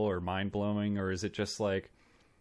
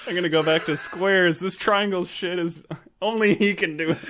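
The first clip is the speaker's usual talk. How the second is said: defeated professor; 8 semitones higher, 5 dB louder than usual. Acted. Voicing defeated professor, laughing.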